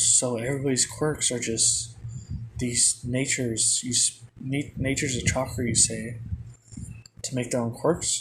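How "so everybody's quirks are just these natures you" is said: ordinary delivery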